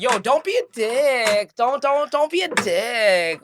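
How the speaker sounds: put-on slow, slurred drunk pleading; slurring drunk. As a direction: drag the words like a tipsy partygoer. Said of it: "it's like she's slurring her words".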